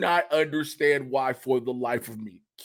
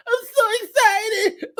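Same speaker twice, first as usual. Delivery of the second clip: Keegan/public; slower than usual. Retold or imitated. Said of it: "when Keegan tried to console Jordan".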